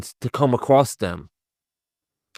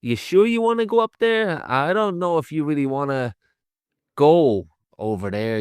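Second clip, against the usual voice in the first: put-on reluctant old granddad; 5 semitones higher than usual. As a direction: lightly imitate a wavering, reluctant warning. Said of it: "character is like".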